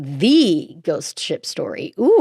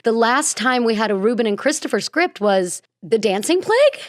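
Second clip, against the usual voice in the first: questioning rise; 3 semitones higher than usual. Real, not acted. Unsure of the title.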